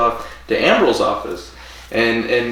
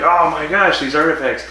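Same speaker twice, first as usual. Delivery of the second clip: raised, awed exclamation; acted-out wonder, pitched up; mock amazement; 4 semitones higher, 3 dB louder than usual. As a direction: imitate someone thrilled by a discovery. Acts out discovering the artifacts.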